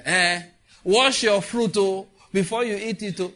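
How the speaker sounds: high, loud mock warning to kids; mother warning children. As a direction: nag the children to wash fruit.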